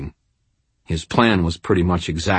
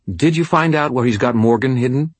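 higher female voice, impatient; demanding woman; 6 semitones higher than usual. Acted. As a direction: press him for the answer. Madeline's voice, demanding.

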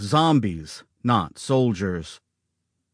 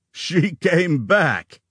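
with a laugh; 6 semitones higher, much slower than usual. A narrator's reading. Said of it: "said with a laugh".

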